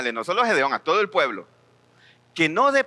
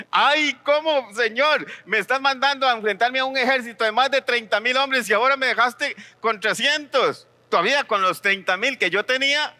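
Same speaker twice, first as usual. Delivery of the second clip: dismayed Gedeon; 5 semitones higher than usual. Retold or imitated. Gideon pleading to the Lord, dismayed whine.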